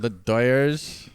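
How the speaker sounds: put-on accent, rising; mock Latino accent. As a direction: try the accent on the word. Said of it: "Doyers here".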